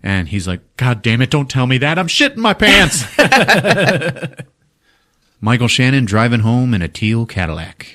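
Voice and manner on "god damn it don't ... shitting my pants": rising to a high, loud comic wail; mock panic. Artist hearing his accomplice is terrified, climbing mock panic. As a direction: build into a hammed-up panicked yell. Acted panicked reply to her fear.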